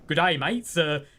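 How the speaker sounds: imitating a failed Aussie accent; badly faked Australian accent, playing the game master; botched Australian accent. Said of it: "he could not do an Australian accent".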